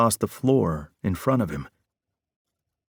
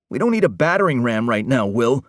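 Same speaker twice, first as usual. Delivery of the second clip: growled; 3 semitones higher, 3 dB louder than usual. Acted. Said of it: "Parker growled".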